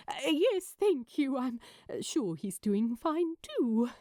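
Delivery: brightly strained, bright on top and hesitant beneath; forced cheerfulness. Acted. Az on the phone to a talk show host, forced cheer. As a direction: sound chipper while hiding fury. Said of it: "Az tried to sound cheerful".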